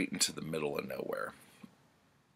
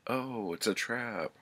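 higher, quick alarmed realisation; realising a trap; 7 semitones higher than usual. Retold or imitated. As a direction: catch on to the ambush with a jolt. Conan realises the ambush.

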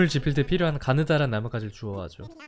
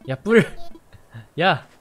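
loud shout; 7 dB louder, slower than usual. Real, not acted. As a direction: shout across to him. Shouting at villager.

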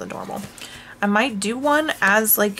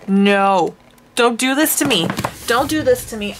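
mock despair; 2 semitones higher, 3 dB louder than usual. Real, not acted. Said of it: "maybe I'm being dramatic".

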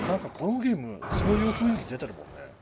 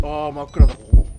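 hit hard crying out; 3 semitones lower, 16 dB louder than usual. Real, not acted. Exclaims at darkness.

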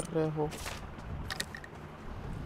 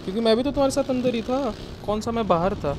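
heated protest; 5 semitones higher, 5 dB louder than usual. Real, not acted. Arguing with teammates over play.

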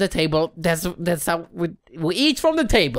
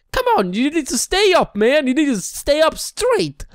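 high coaxing; 6 semitones higher than usual. Real, not acted. Coaxing a candle upright.

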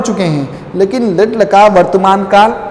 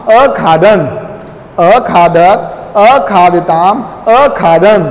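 recitation drill; much slower than usual. Shown as a demonstration. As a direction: chant the verb forms for pupils to repeat. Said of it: "एक बार फिर से उच्चारण कीजिए".

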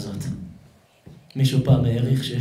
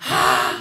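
loud, drawn-out cry; acted-out wordless yell; imitated scream; 2 semitones lower, 4 dB louder than usual. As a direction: let out a sudden mock scream. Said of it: "שומעים מישהו צועק".

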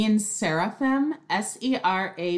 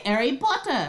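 put-on British accent; 5 semitones higher than usual. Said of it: "that's what they say".

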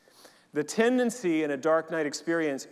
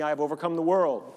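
louder, clear call for the church to echo; leading a repeat-after-me; 4 dB louder than usual. Shown as a demonstration. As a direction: say it out for all to repeat. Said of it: "Can you repeat that after me?".

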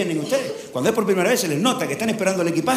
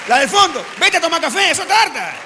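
laid-back islander; 10 semitones higher, 4 dB louder than usual. Retold or imitated. Comedian voices a relaxed islander telling a tourist not to hurry. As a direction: tell him to go for coffee, no rush.

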